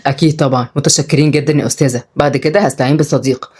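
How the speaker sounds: low, good-humoured thanks; amused man. Acted. Oday thanking the teacher, drily amused. Oday replies after laughing.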